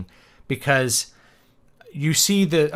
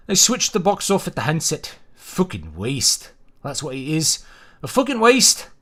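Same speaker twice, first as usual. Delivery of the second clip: snarl; 5 semitones higher than usual. Acted. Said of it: "And snarled".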